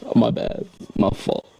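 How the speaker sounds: strained, on back under car; lying under a car. Real, not acted. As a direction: talk while lying on your back. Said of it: "I think it's because I'm under the car".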